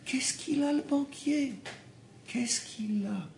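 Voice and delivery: high, scornful, drawn out question; mocking disbelief. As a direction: scoff at the banker like he's nothing. Mocking the fear of bankers.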